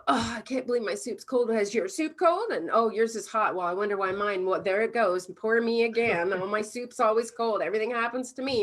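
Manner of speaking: fast, self-pitying mock rant; hammed-up grumbling victim; imitating a whiny diner; ticked-off rant. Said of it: "get ticked off and go".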